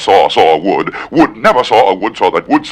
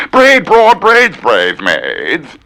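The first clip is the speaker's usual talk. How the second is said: bossy order; 5 semitones higher, much slower than usual. Acted. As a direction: bark the order at the maids. Quoted command to maids.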